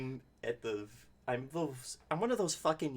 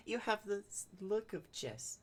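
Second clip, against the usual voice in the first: rhyming gnome voice; 9 semitones higher, 5 dB quieter than usual. Retold or imitated. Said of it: "lady gnome who speaks only in rhyme".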